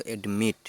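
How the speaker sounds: অ্যাডমিট said as English admit, ad-MIT; English pronunciation. Shown as a demonstration. Teacher modelling অ্যাডমিট for Bengali learners, clear English pronunciation. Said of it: "উচ্চারণ হলো".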